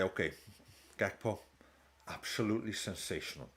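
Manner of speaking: a Slot impression that drifts into a lightly done Indian accent; half-hearted Indian accent in a mock manager pep talk; Slot slipping into Indian accent. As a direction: start as the manager, then let an Indian accent creep in. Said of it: "veering into Indian now".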